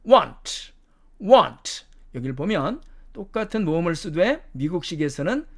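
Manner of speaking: "want" with a short rounded o; British pronunciation. Shown as a demonstration. Teacher contrasting the fifth word, British pronunciation. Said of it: "영국식 발음으로 가면".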